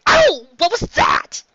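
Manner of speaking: sudden high loud ow; surprised yelp of pain. Acted. Luffy startled by Chopper's injection, sharp yelp. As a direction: yelp at the needle.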